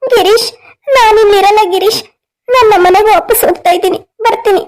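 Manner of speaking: feigned crying, slightly plaintive; put-on tearful. Threatening to go back home, feigning tears. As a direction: play up a mild tearful hurt. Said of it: "ಯಾಕೆ ಅಳ್ತಾ ಇದೀಯ?".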